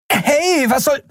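very high indignant cry, cut off; startled protest. Acted. Endriel pulled from the wheel by Keru, very high. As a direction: yelp in protest.

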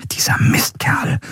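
slow, drawn-out angry whisper; geflüsterter Fluch. A narrator's reading. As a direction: whisper the curse slowly under your breath. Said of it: "flüsterte Endriel". (wütend geflüstert)

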